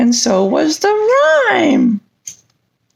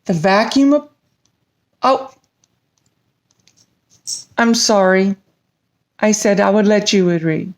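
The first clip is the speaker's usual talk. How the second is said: low dragon voice; 9 semitones lower, faster than usual. Acted. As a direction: speak low like a big friendly dragon. Dragon voice again.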